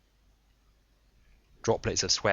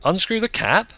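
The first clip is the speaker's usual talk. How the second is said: higher, loud voice over a tinny speaker; squawking speaker; 12 semitones higher, 8 dB louder than usual. A narrator's reading. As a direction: sound like a squawking loudspeaker. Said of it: "the audio squawked".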